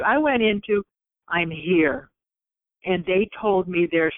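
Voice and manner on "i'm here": simply be present, without getting emotional; steady presence. Retold or imitated.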